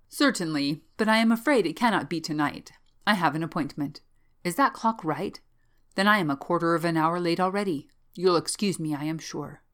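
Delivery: lightly acted, emphatic polite excuse; evasive student making excuses. Bellingham makes hurried excuses to leave.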